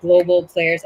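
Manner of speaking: breathless from being sick; short of breath, pushing through. Real, not acted. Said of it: "I'm a little bit out of breath".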